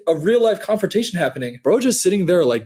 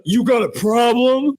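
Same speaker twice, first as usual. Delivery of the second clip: imitating the old man; 6 semitones higher than usual.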